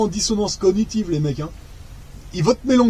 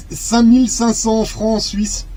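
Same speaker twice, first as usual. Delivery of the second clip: amazed; 2 semitones higher, slower than usual. Real, not acted. Stunned by the pay amount.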